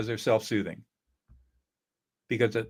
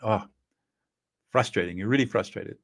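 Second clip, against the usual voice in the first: gentle affect label; 2 semitones lower than usual. Shown as a demonstration. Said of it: "but conversation".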